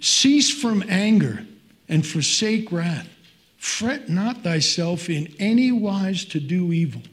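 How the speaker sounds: slow, weighty reading of the verse; solemn scripture reading. Acted. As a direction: read it out like holy writ from the pulpit. Reads scripture aloud.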